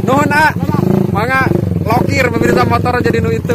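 pumped up and chatty; excited. Real, not acted. Excited, louder and higher.

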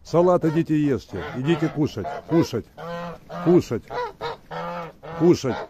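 high, loud calling out to eat. Real, not acted. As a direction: call them over, loud and sing-song. Calling geese to the salad.

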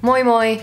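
moi moi, slow and clear, like "moy moy"; drawn-out teaching "moi moi"; Finnish moi moi. Shown as a demonstration. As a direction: say moi moi slowly for a learner. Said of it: "if you use the double hello, it's a goodbye".

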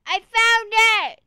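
high, loud cry of discovery; excited high-pitched holler; triumphant shout. Real, not acted. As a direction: yell it out in triumph. Finds what was searched for.

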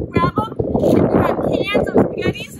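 put-on playful squeak for the kids; squeaky high voice. Goofy aside about using cans.

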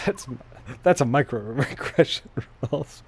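talking through real laughter; laughing. Real, not acted. Streamer teasing a game character over his remark, laughing. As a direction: let the laugh break up the words.

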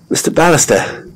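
high, eager address; excited call. Acted. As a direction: call him with barely held excitement. Excited Jelwyn calls out.

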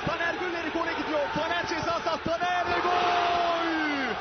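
excited goal call. Real, not acted. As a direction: race then drag out the goal. (heyecanlı, uzatılmış gol çağrısı)

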